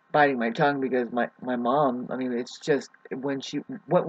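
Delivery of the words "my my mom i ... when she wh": halting, stumbling over words; stuttering. Real, not acted. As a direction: catch on the words and restart. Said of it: "I'm kinda stuttering".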